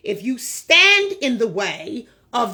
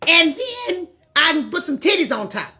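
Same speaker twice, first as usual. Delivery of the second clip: louder and higher, hammed-up haggling; loud mock bargaining; 4 semitones higher, 4 dB louder, faster than usual. Man refusing the cut, loudly offering to tuck instead. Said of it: "will say".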